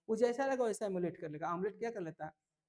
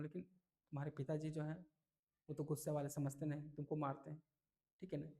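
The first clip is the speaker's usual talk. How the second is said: softer, kindly grandfather, lightly voiced; दादाजी की नरम आवाज़; 3 semitones lower, 5 dB quieter than usual. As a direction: speak low and gently like a kind grandfather. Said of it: "उसको दादाजी बोलते". (दादाजी की हल्की, नरम, समझाने वाली आवाज़)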